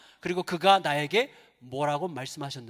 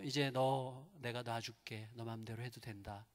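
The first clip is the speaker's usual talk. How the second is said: slow, much softer giving in; quiet surrender; 8 semitones lower, 13 dB quieter, slower than usual. Retold or imitated. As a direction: let go slowly, all strength drained. Mother gives in, worn out. (힘을 쫙 빼고 천천히 조용히 놓아주는 엄마)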